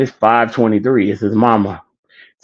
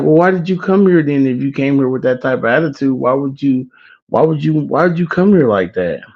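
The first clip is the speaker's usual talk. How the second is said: higher-pitched, put-out questioning; retold indignant challenge; 4 semitones higher than usual. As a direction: challenge him on his attitude, imitating her. Retold lady challenging rude applicant.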